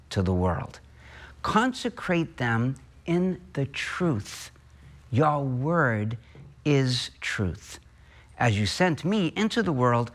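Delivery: solemn, measured liturgical reading; gospel reading. Acted. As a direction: proclaim scripture to the congregation. Gospel read aloud at Mass.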